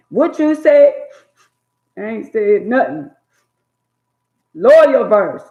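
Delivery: put-on loud, high mama yelling at her kid; mock yelling mama. Mama shouting at her back-talking daughter, high and loud. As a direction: shout it up high like an angry mother. Mother and child quarrel acted.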